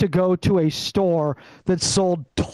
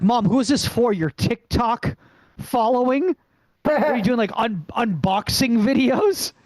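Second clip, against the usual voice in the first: incredulous; 5 semitones higher than usual. Retold or imitated. Incredulous son questions mom.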